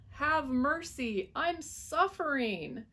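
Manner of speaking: high, pleading wail. A narrator's reading. Suffering fox wailing to the dentist. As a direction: beg with a drawn-out cry. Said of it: "the fox wailed".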